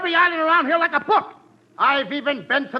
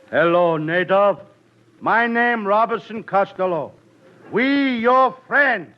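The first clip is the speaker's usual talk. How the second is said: pidgin English; 5 semitones lower, slower than usual. Acted. Pidgin talk to native.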